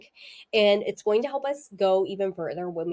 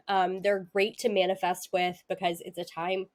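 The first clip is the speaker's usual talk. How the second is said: talking through the hiccups. Real, not acted. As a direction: hiccups breaking up the words. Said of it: "excuse me, I'm getting the hiccups".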